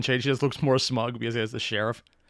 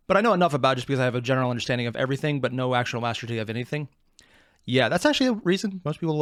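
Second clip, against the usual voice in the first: normal talking voice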